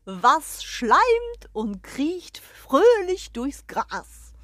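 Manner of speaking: crowing rooster voice, loud and pompous; proud rooster. Acted. The rooster greets the hens and the guest, proud crowing voice. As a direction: strut and crow like a proud rooster.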